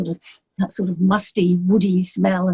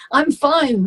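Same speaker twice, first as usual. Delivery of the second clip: laughing; 5 semitones higher than usual. Real, not acted. Laughs after the big introduction.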